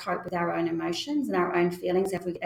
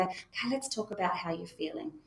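mock calm chat; 7 dB quieter than usual. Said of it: "time to sit down and go".

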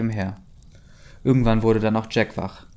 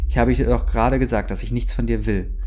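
mild mock yell; 4 dB louder than usual. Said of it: "brüllte er sie an".

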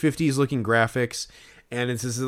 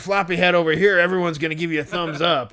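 lightly hammed-up, higher-pitched guide voice; tour guide impression; 4 semitones higher than usual. Fan mocks an unwanted beer-pointing tour guide, lightly hammed-up. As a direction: play an over-chummy tour guide, lightly mocking. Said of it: "this guy was probably like".

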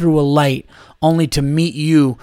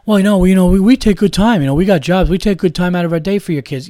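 mock daycare worker excuse; 4 semitones higher, 5 dB louder than usual. Mocking the daycare staff's excuse.

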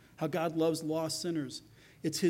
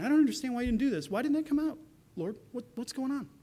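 puzzled complaint; 4 semitones higher, faster than usual. Acted. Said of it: "You're just saying".

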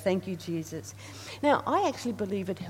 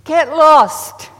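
loud, sharp shout at Satan; shouted rebuke; 7 semitones higher, 18 dB louder than usual. Retold or imitated. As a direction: bark it to drive him away. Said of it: "turned around and said".

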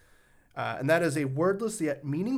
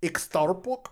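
Russian-sounding read; 4 semitones higher, slower than usual. Shown as a demonstration. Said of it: "I pronounce things like a Russian".

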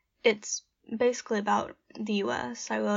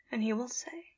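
whisper; 4 dB quieter than usual. Acted. Whispered closing refrain.

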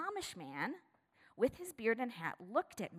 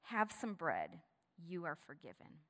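gentle; 2 semitones lower, 5 dB quieter than usual. Retold or imitated. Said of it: "He offered a gentle smile".

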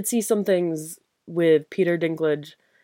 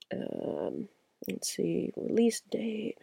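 whispering; 2 semitones higher, 9 dB quieter, much slower than usual. Real, not acted. Muttering while searching the app.

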